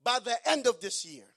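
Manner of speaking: eager pitch. Retold or imitated. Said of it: "He said".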